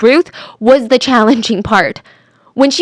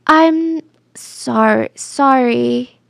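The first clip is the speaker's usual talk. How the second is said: repeated apology; 2 semitones higher, much slower than usual. Retold or imitated. Suspect repeating herself to investigators, halting apology. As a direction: break off and restart the word. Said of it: "she just kept repeating".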